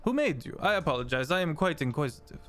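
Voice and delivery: put-on over the top French accent. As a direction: ask with a bad French accent. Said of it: "my horrible French accent".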